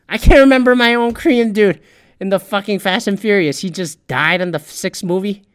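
high, loud outburst about the Korean dude; heated rant. Real, not acted. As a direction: get worked up, frustrated. Ranting over Fast and Furious.

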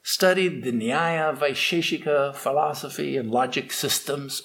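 a learned man showing off to a servant, condescending; condescending pundit. Acted. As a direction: talk down to a lowly boatman. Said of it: "he looked down his nose at that ferryman".

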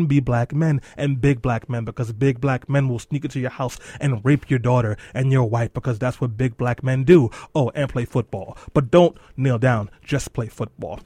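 bitter sarcasm. Acted. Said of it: "sarcastic mock reasoning".

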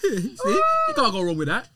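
high, loud sarcastic laughter; mock his logic while laughing; laughing sarcasm. Real, not acted.

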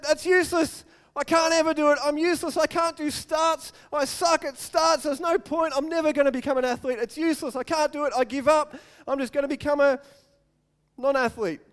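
mock self-pity. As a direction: whine that it's all hopeless. Voicing a defeated self-pitying reaction.

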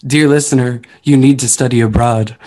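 hammed-up heartfelt appeal to listeners; mock sappy plea. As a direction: close to the mic, loud and earnest. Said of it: "let me get nice and close to the microphone".

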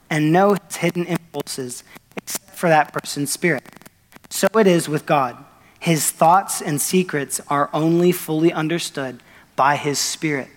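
preacher reading the Bible passage to his congregation, measured; scripture reading. Acted. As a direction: read it out to the church, deliberate. Reads scripture aloud.

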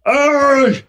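slow tired voice breaking high; Jeff out of breath. Retold or imitated. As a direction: wheeze it out, then yelp. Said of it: "where you do the low voice".

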